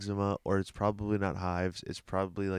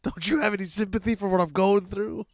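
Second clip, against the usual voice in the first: mock whiny; 10 semitones higher, 7 dB louder than usual. Mocking plea for sympathy.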